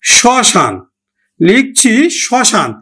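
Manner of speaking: শ্মশান said as "shoshan", the m silent; শ্মশান pronounced "shoshan" with a light nasal touch; spoken as shoshan. Shown as a demonstration. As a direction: say শ্মশান with no m sound, "shɔshan". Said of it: "উচ্চারণটা করি স".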